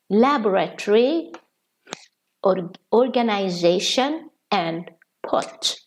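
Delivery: often, secondary, military, preparatory, laboratory, organization and pot in British form; British pronunciations. Shown as a demonstration. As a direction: read the list the British way. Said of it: "In British English".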